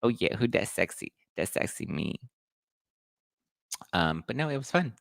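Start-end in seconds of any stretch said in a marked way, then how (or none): 0.0-2.2 sassy self-admiration. Retold or imitated. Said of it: "I always look like".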